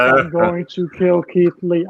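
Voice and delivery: slow flat monotone threat; Damian Priest monotone. Retold or imitated. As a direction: lifeless promo read, slowed down. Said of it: "It's so monotone".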